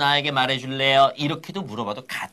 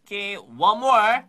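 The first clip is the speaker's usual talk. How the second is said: loud coaching call; 5 semitones higher, 6 dB louder, much slower than usual. Real, not acted. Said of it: "Your turn".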